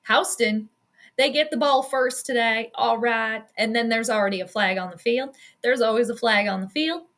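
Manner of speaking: light put-on Southern drawl; a hint of Southern twang. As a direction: slip playfully into a Southern US drawl. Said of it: "just started talking in a Southern drawl".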